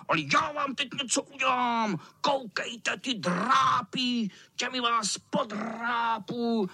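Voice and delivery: vysoko, zlověstně a pomalu na drápech; strašit kluky drápy; výhružný kocour. Acted. (kocour vyhrožuje klukům drápy)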